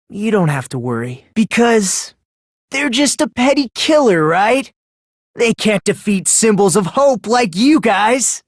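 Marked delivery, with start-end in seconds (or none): 1.3-8.4 rapturous about hope. Acted. Komaeda rhapsodizes about hope.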